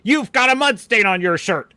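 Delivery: hint of a commercial mom; playfully mock-scold like an ad mother; lightly voiced mom. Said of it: "his mom is like".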